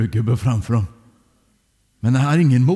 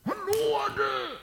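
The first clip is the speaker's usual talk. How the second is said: high, soft-volume mock distant call; 7 dB quieter, slower than usual. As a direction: call for someone buried, high and held back. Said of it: "så ropade pistvakten". (ljust, dämpat rop)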